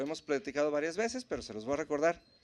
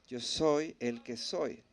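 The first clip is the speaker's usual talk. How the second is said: slow, lower-pitched declaration; from deep within; 4 semitones lower, much slower than usual. Shown as a demonstration. Preacher showing God's name comes from within, slow and low. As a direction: say it slowly, drawing it up from inside. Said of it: "Viene desde adentro".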